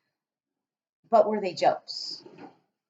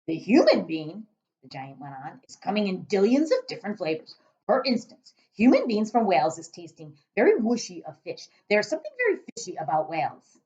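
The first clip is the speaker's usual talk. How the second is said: giant voice; 2 semitones higher, 4 dB louder than usual. Acted.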